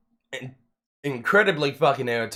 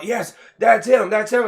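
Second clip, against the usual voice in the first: mocking accusers; 9 semitones higher, 6 dB louder than usual. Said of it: "And they're like".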